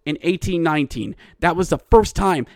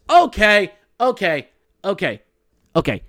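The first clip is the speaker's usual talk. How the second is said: riled up; 4 semitones higher than usual. Real, not acted. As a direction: get worked up, then calm yourself down. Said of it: "I'm getting riled up over this".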